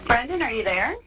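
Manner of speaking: tinny phone-line voices; payphone call. Real, not acted. Recorded phone interview with inmate.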